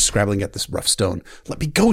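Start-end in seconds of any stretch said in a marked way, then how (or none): 1.5-1.9 higher, louder plea to be let go; crying out. Acted. Frightened girl crying out to her captor. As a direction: cry out in a panic. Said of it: "she cried".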